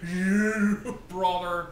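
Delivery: lightly voiced gruff wrestler catchphrase; a hint of Hogan's drawl; mild Hulk Hogan impression. Fan recapping the show, lightly imitating Hogan's catchphrase. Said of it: "Hogan with the classic".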